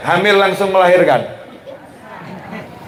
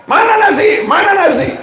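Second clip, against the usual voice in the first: husband yelling; 12 semitones higher than usual. Retold or imitated. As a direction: yell for the rice like a starving husband. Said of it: "teriak-teriak". (suami lapar teriak-teriak minta nasi)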